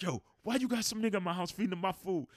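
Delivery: high, loud mock yell; retold angry yell. Friend yelling at his girlfriend over the food, loud and high. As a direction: demand it in outrage. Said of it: "he's like".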